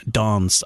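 'dance' with a long 'ah', southern English. Shown as a demonstration. Voiceover artist showing the southern station word, long A in dance. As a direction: say dance as 'dahnce'. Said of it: "in the south it was dance".

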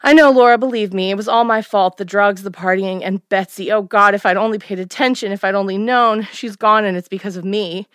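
mild tearful guilt, voice lifting; mother beginning to cry. Acted. Mother confessing her guilt to her daughter, mildly tearful. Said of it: "As my mother began to cry".

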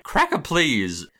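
dad arriving to confront Renee, slow and pointed; slow drawn-out dad. Retold or imitated. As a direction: drag it out with mock menace.

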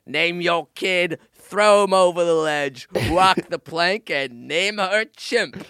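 high, slow hammed-up pirate. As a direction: ham up a singsong pirate. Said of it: "talking like a fucking pirate".

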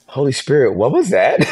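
high, laughing bewildered question; laughing disbelief. Retold or imitated. Guest recalling asking the Holy Spirit about the vision, laughing and baffled. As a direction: laugh through it, baffled and amazed.

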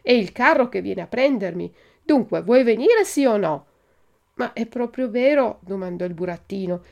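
animated storybook reading with acted dialogue; story narration. A narrator's reading. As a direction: read the dialogue out with lively, rising questions. Reads Pinocchio chapter aloud. (lettura animata di una fiaba)

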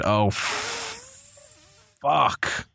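sudden high yelp, then a dropped curse; real shock, voice jumping up before falling. Real, not acted. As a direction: caught off guard by the injury. Star striker suddenly injured.

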